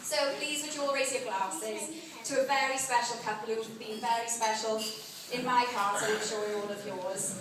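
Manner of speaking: heartfelt wedding speech, read aloud; wedding toast. Acted. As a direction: give the bridesmaid's toast. Bridesmaid reads wedding speech.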